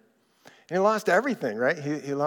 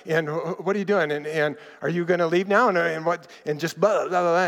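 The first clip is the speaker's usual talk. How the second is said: rapid-fire badgering; faster than usual. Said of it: "He would start texting her".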